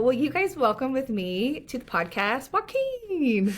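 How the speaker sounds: name sung out high at the end; guest introduction. Real, not acted.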